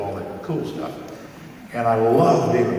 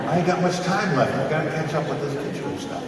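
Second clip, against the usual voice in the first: laughing at himself; 8 semitones higher, 5 dB louder than usual. Real, not acted. Joking about being old.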